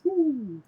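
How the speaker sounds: high-pitched swoop of a zoom past; a high, drawn-out woo like something flying by; high whooshing "woo". Acted. Game master voicing a zoom past, high whoosh.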